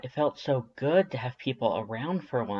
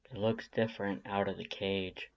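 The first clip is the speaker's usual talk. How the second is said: softer, low murmur; 3 semitones lower, 6 dB quieter than usual. Acted. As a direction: say it half to yourself while watching the cat. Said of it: "he murmurs".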